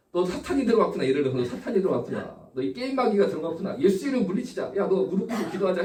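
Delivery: lightly acted pious rebuke; mock accusing parent. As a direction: imitate a parent rebuking the devil in a child. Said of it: "어느 부모가". (마귀를 꾸짖는 부모 흉내)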